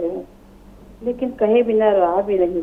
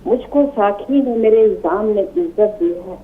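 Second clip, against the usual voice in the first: poem recitation. Acted. Recites a ghazal.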